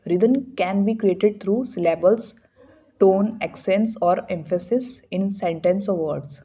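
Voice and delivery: slow, drawn-out textbook read; stretched-out reading. Shown as a demonstration. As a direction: stretch every word so the rhythm shows. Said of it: "extend करके पढ़ रहे हैं".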